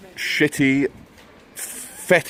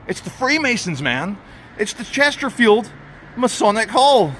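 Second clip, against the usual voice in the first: mock surprise; 10 semitones higher than usual. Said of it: "And I said".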